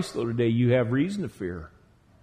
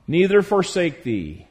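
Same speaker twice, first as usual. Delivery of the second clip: slow and louder, every phrase weighted; emphatic scripture reading; 3 semitones higher, 6 dB louder, slower than usual. Acted. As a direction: lean hard on each promise from the pulpit. Preacher reads key verse with weight.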